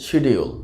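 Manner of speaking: শিডিউল in three beats, "shi-di-ul"; common mispronunciation. Shown as a demonstration. Teacher shows the everyday mistake, mispronounced. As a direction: say শিডিউল with a full "di-ul". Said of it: "শিডিউল উচ্চারণটা একটা ভুল উচ্চারণ".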